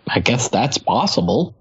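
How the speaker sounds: doubtful, grudging concession; incredulous. Real, not acted. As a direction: concede it without believing it. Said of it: "You sound incredulous".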